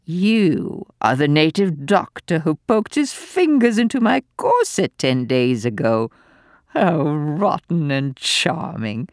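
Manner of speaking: a lightly voiced wicked flirt; old lady leering at the doctor, mildly mocking. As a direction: lure him in with wicked teasing. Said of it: "she growled wickedly".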